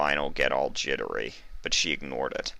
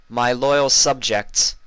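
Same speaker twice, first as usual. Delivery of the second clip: regal princess; 7 semitones higher, 7 dB louder, slower than usual. Acted. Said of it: "she began".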